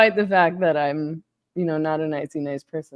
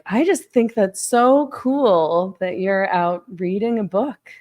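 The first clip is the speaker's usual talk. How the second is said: mock patronizing; 3 semitones higher, slower than usual. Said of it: "would be like".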